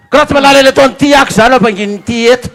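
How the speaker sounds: loud indignant yell; mock yell. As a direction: shout down the husband. Angry wife yelling.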